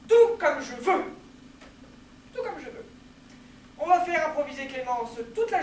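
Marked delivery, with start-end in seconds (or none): 0.1-1.0 loud, emphatic assertion; loud insistence. Acted. Insisting on speaking as she pleases, loud assertion. 2.3-2.9 higher, softer restatement; soft repeat. Acted. Repeating the insistence to oneself, soft and high.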